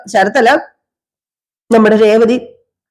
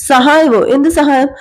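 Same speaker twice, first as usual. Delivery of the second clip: higher-pitched puzzled question; lightly acted surprise on the phone; mild acted surprise; 4 semitones higher than usual. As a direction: echo it back, pitched up and puzzled. Varsha puzzled by request.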